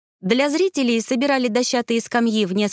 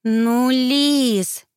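higher, stretched-out pleading; drawn-out whine; 4 semitones higher, 4 dB louder than usual. A narrator's reading. Younger sister pleads with teasing older sister, drawn out. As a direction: drag the name out in a girlish plea. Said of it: "протянула Элина".

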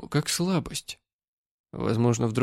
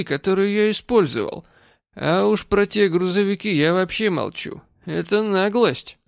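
put-on drunk complaint, getting heated; drunk and angry; 4 semitones higher than usual. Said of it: "он был слишком пьян".

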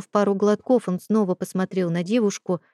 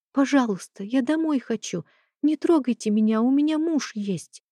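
put-on higher, scared girl begging; frightened pleading; 5 semitones higher than usual.

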